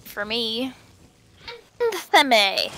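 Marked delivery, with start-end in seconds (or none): 1.8-2.3 Antheme said with an added N before the "th"; pronounced with N. Real, not acted. Player saying an item's name their own way, Antheme with an N. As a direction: put an N into Antheme, "an-thuh-may". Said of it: "pronouncing it like it has an N in it".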